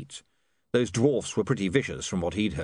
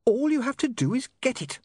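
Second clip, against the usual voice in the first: high-pitched urgent cry; acted shout, pitched way up. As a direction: cry it out high, urging them on. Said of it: "she shouted".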